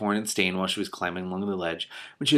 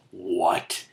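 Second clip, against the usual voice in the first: startled what; surprised. Real, not acted. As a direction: react in surprise. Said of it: "There's giantess".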